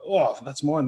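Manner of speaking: sudden high, loud delight; a happy little shout of recognition; excited discovery. Retold or imitated. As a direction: burst out with glee at finding it. Excited discovery of own thought.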